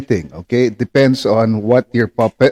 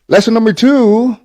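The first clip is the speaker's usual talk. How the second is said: high squeaky puppet voice; squeaky ventriloquist dummy; 11 semitones higher, 4 dB louder than usual. Acted. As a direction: pitch it up like the dummy talking. Ventriloquist with puppet beside him.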